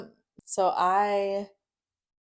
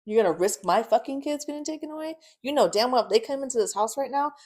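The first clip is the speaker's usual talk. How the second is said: higher-pitched, heated scolding; pissed; 5 semitones higher than usual. Retold or imitated. Scolding him over risking her kids, pissed. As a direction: relive the argument, getting worked up. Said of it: "I get a little pissed".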